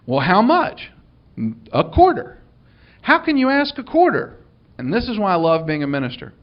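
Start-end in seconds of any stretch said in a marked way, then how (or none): 0.1-4.3 high, squeaky mock indignation; man at the yard sale objecting to the price, high mock outrage; indignant man. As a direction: play the outraged churchgoer in a high put-on voice. Indignant man voiced, pitch jumps.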